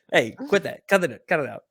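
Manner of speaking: high, mock-stern staff scold; playful fake superintendent scolding; pretend groundskeeper. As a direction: shoo people off like a fake course worker. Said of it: "imagined staff scolding".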